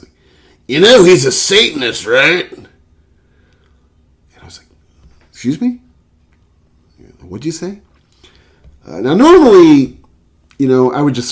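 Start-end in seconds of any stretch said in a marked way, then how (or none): 0.7-2.5 higher, louder conspiratorial hick; gossiping coworker. Retold or imitated. Coworker telling the narrator Rollins is a Satanist, high mock voice. 5.3-7.8 high incredulous excuse me; shocked reply. Retold or imitated. Narrator stunned at the coworker's claim, high disbelief.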